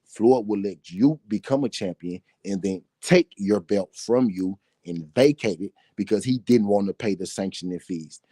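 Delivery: deliberate, punched key words with small gaps; slow repeat. Shown as a demonstration. Boxing commentator repeating his point to doubting fans, slow and deliberate. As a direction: spell it out piece by piece. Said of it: "I'm gonna say that again slow".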